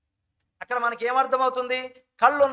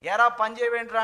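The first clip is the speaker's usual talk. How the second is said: scolding parent; 4 dB louder than usual. Retold or imitated. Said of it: "అంటే".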